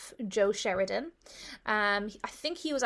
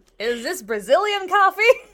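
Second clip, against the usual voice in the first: booming, loud, high put-on American accent; 8 semitones higher, 11 dB louder than usual. Retelling a question an American asked, told to do the accent: American accent. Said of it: "Do the accent".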